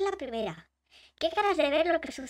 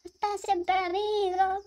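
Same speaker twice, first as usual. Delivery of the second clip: slow put-on read; 3 semitones higher, 3 dB louder, slower than usual. Shown as a demonstration. Reading phrase in slow voice.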